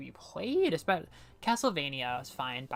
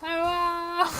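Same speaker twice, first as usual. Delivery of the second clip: loud, high laughter over the sorry; can't stop laughing; laughing apology; 9 dB louder, much slower than usual. Real, not acted. Streamer bursts out laughing, apologizing to chat.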